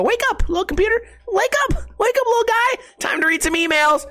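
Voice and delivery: very high-pitched sing-out coaxing; cutesy wake-up call. Retold or imitated. Owner gently rousing his little computer, cutesy falsetto. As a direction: coo at it like a little pet, way up high.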